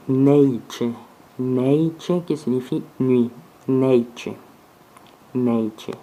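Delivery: Neiche ending in a tch sound; tch sound demo. Shown as a demonstration. Teacher showing T said as tch, repeated demo. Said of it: "se prononcer T comme Tche".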